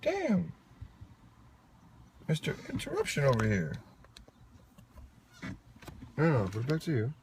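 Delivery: high-pitched mock outrage; playfully indignant. Real, not acted. Interrupted host to co-host, playfully indignant. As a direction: protest in a high, put-upon voice.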